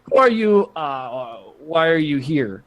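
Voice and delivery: put-on half-hearted Russian accent; rusty, tentative Russian accent; attempted Russian accent. Game master voices Krakow questioning Weasel, attempted Russian accent. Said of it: "I don't do a Russian accent very much".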